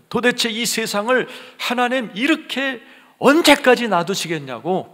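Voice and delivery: high, loud plea to God; anguished John pleading. Acted. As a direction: act out John's desperate protest. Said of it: "할아버지 요한이 울고 있는 거예요". (하나님께 따지듯 높게 호소)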